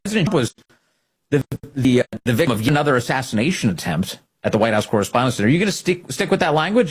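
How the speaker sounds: high, fast mocking reporter voice; mocking imitation of a pushy reporter. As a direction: rattle off the reporter's question in a put-on voice. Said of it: "he's like".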